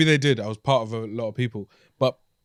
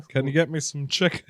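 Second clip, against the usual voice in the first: hesitant stab at Scouse; failed Liverpool accent. Shown as a demonstration. Copying a mate's Scouse, poor Liverpool accent. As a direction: try Scouse and miss. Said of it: "Can't do it".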